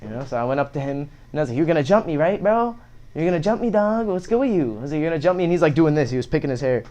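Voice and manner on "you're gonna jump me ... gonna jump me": taunting. Retold or imitated. Confronting the kid.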